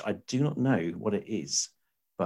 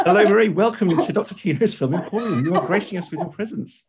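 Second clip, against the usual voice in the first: hammy stage actor; 9 semitones higher, 5 dB louder than usual. Pretend. Courtly welcome of medieval guest.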